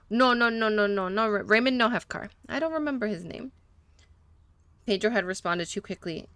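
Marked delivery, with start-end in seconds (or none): 0.1-3.5 lightly put-on Spanish accent, broken English; a hint of a Spanish-speaking mechanic, eager to please; gentle Spanish accent, a little nervous; mechanic's Spanish accent. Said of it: "that was on purpose that he was talking that way".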